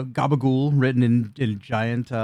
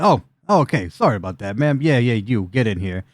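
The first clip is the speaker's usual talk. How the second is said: sudden apologetic surprise. Acted. Bouncers to ma'am after being persuaded, surprised and apologetic. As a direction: open on a jolt, then settle into apology.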